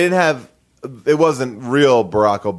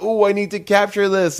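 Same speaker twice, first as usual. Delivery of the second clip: higher-pitched eager "ooh"; put-on giddy urge; mock party excitement; 10 semitones higher than usual. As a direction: imitate an excited partygoer reaching for the phone. Mocks phone-snappers at a party.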